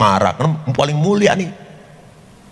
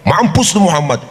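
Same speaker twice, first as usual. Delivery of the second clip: mock taunt; 4 semitones higher than usual. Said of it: "Kalau kita dikata begitu".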